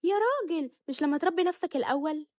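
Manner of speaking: high, sarcastic jab; mocking retort. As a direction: scoff at him from way up high. Wife mocking husband in quarrel. (زوجة بتتريق على جوزها بصوت عالي)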